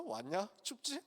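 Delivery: a light, smiling greeting; with a grin. Retold or imitated. The Lord greeting a soaked Peter, gentle grinning welcome. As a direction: tease him kindly with a grin. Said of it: "씩 웃으면서".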